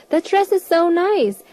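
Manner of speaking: speaking up. Retold or imitated. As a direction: say it clearly so she hears. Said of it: "and I'd say".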